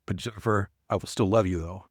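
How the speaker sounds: a gentle, softened reassurance with a smile; a touch of tenderness toward a worried employee; softened, smiling. Retold or imitated. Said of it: "softened as I was looking at her, and I smiled".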